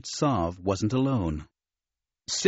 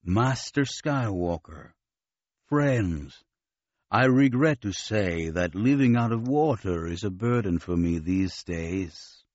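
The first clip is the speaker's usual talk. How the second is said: put-on slow, labored words of a sick old admiral; weak gasping voice; 3 semitones lower than usual. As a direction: push each word out short of air. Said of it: "his words were lisped out of a slack mouth that gasped for air".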